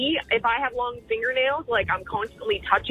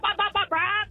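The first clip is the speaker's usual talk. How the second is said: imitated exhaust brap; 8 semitones higher than usual. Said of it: "you just stop your conversation and go brap".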